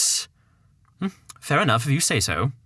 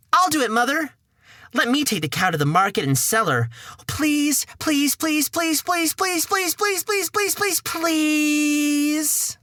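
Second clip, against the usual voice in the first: rising higher and higher begging; pleading boy; 12 semitones higher than usual. Acted. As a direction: whine please like an eager kid. Jack begging mother.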